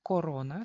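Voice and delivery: corona with a full o in both syllables; spelling pronunciation of corona, ko-ro-na; as written. Shown as a demonstration. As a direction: keep the first o of corona round. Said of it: "se escribe también corona".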